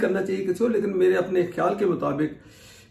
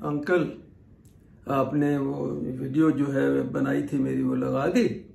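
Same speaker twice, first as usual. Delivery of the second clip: imitating the worker's slow talk; 3 semitones lower, slower than usual. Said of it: "मैं उसकी tone में आपको बोलूँगा".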